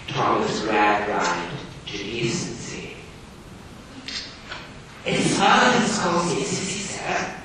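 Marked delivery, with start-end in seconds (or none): 5.0-7.3 put-on high, timid, trembling girl. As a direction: tremble as you answer the master. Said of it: "in a trembling voice".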